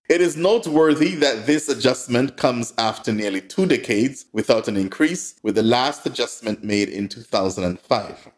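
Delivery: formal read-out of a statement; measured bulletin delivery; news release read. Acted. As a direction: read it like an official press release. Reading out a press release.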